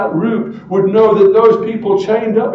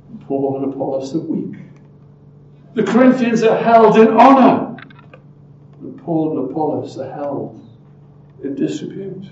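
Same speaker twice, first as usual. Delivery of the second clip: sarcasm. Acted. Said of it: "Do you get the sarcasm".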